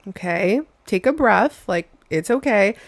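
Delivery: lightly patronising, as if soothing a tantrum; calm someone like a toddler, jokingly; mock condescending. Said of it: "I'm not saying be condescending".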